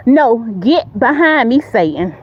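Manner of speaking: steady, commanding "get behind me, Satan"; a flat, sure command that closes the matter; firm rebuke. Shown as a demonstration. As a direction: tell him off with authority. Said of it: "Say it with authority".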